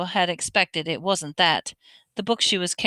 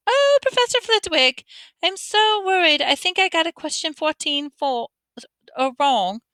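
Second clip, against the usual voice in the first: much higher, mock-worried girlish whine; 7 semitones higher than usual. Ron mocking how Hermione should act, mock high voice. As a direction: ham up a fretting student. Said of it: "Put on a high voice".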